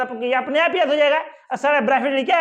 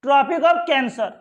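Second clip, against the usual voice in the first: slow dictation; much slower than usual. Shown as a demonstration. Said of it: "English में इसे क्या कहते हैं?".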